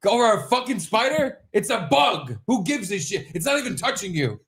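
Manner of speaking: high, incredulous rant with a laugh; retold driver ranting at a scared passenger; exasperated rant. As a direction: let the disbelief run high and fast. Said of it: "I was like".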